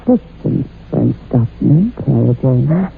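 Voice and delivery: menacing threat. Acted.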